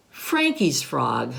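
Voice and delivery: low slow dog voice; older dog voice. Acted. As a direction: say it like a gentle big dog. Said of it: "And Nico says".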